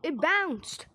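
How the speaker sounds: high, loud cries of surprise; excited, incredulous yelping; startled disbelief. Pretend. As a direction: exclaim as if caught off guard. Item bounces away unexpectedly.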